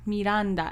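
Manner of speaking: "Miranda" with tapped r and ah; "Miranda" as mi-RAHN-da, r lightly tapped; mom's English Miranda. Retold or imitated. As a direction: imitate English mom saying "Miranda". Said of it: "my mom is just Miranda".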